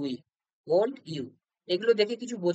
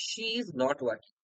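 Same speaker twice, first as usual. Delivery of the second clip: very slow, each word spaced out; slow dictation; 4 semitones lower, 4 dB quieter, much slower than usual. Shown as a demonstration. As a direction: read the example slowly for students. Teacher reads example sentence. (খুব ধীরে উদাহরণ পড়া)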